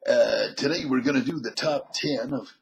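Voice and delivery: a hint of an old radio DJ; half into the countdown patter; lightly voiced vintage DJ; sixties DJ voice. Shown as a demonstration. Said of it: "nineteen sixties era D J voice".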